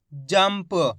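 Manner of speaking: "जंप" as one syllable, m straight into p; blended half m. Shown as a demonstration. Teacher joining the letters, blended half m in "जंप". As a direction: close the lips on the m of "जंप", no vowel after it. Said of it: "तो मिलके बन जाएगा".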